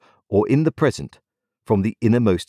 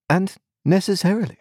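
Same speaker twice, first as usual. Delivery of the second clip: high, proud and dismissive; haughty; 13 semitones higher than usual. A narrator's reading. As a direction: toss it off with cool superiority. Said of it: "in a haughty tone".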